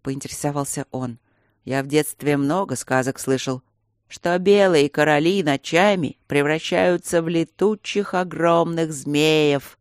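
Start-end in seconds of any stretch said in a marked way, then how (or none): 1.6-9.8 very slow, spooky voice from the grave; ghostly voice. Acted. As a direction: drag it out like a ghost story. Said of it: "загробным голосом произнёс Берни".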